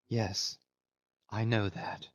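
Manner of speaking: very soft, hushed admission; breathed out. A narrator's reading. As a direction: breathe it out, still as a statue. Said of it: "she breathed out".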